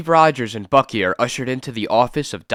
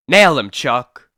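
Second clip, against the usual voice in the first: shouted order; 6 dB louder, slower than usual. Acted. Thug urging partner on.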